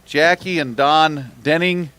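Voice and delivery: slow, drawn-out announcer call of the team and weight; weigh-in announcer. Acted. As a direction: call it out slowly to the crowd.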